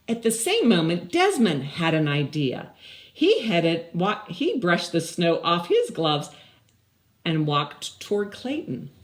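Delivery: lively, even storybook read; reading to children. Acted. Teacher reads the story aloud to her class, lively storybook voice. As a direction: read it out like a story to little kids.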